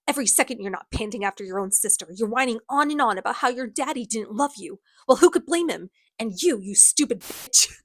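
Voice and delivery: lightly acted scornful rant; going off. Villain lays into his companions, mildly acted tirade. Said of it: "he starts going off on all of them".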